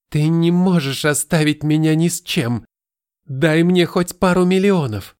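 high, loud desperate yell; desperate shout. Acted. Stepmother begs for money, shouting.

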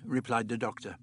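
ordinary talk

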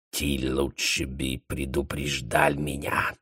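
low, soft, slow aside; whispered reproach. A narrator's reading. The baron whispering a reproach to Contenson. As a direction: hiss it into his ear. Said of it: "шепнул ему на ухо".

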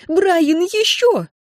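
very high, frantic squeal; shrieked urging. A narrator's reading. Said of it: "взвизгнула Энн". (исступлённо, с визгом)

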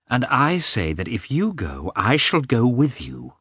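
mildly angry insistence; a touch of defiant temper; hasty anger. A narrator's reading. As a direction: insist crossly, stressing the words. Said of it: "said hastily and angrily".

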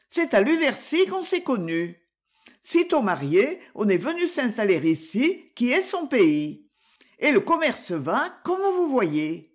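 voix de femme plus aiguë, bavarde et légère; la servante qui raconte volontiers; marchande bavarde. Acted. Wife's voice, higher. (la marchande explique à l'enquêteur : voix plus aiguë, bavarde)

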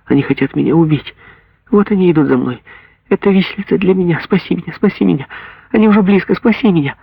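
begging for your life; girl pleads with mother as soldiers come; terrified pleading. Acted. Girl begs mother to save her.

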